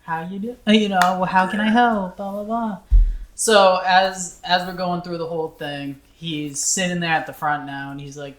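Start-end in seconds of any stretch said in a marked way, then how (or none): 0.0-2.8 lightly voiced customer-service politeness, higher. Retelling dealing with a yelling old man at work, customer-service voice. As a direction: put on a mild helpful clerk voice. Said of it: "I had to be the customer service".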